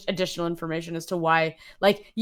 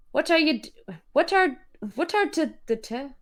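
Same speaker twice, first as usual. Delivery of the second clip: higher, halting rural dialect; thick country accent; 9 semitones higher than usual. Acted. Reader struggling through the dialect line, thick country accent. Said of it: "his accent so thick and oily".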